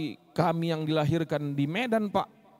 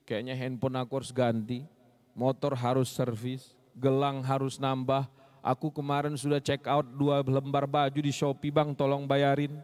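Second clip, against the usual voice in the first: demanding wife, lightly voiced; 7 semitones lower than usual. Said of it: "Yang dia ingat".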